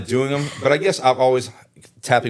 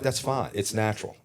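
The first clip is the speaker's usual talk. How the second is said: softer, brushing off a small slip; easygoing self-reassurance; 5 dB quieter than usual. Retold or imitated. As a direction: say it quietly, letting it go. Shrugging off his own stumbles.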